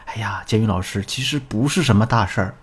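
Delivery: quiet, mildly deflated sigh. Retold or imitated. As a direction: imitate a student sighing softly as she starts. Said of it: "小琴叹了一口气". (模仿学员轻声叹气地说)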